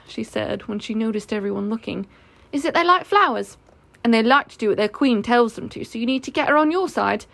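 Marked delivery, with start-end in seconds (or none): 2.5-7.3 lifted, lightly voiced explainer; knowing Lottie. Lottie telling the meeting about bees, confidently explaining.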